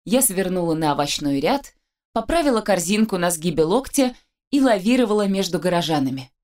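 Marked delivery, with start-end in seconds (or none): none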